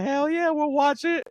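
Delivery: high, drawn-out cheer; imitated gleeful high-pitched yell; excited coworkers. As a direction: whoop it like an eager group of coworkers. Acting out eager coworkers' reply.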